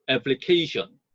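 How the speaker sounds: slow application, main beat on CA; application, secondary beat on AP, main on CA; stress on CA. Shown as a demonstration. Teacher modeling application stress slowly. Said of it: "앱의 보조 강세".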